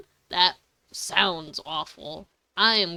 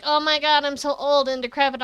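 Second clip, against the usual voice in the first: mock dramatic whine; 5 semitones higher, 4 dB louder, faster than usual. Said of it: "when he's like".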